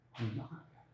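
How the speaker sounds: softly repeating 엄마가 미안해 as a guilty mother; hushed repeat. Retold or imitated. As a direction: let 엄마가 미안해 fade to a near hush. Softer repeat of apology.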